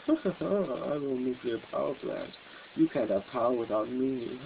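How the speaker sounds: a hint of a pompous Smithers; Mister Smithers. Vlogger doing a fancy schmancy New World Order impersonation as Smithers. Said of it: "act like Doc, Mister Smithers".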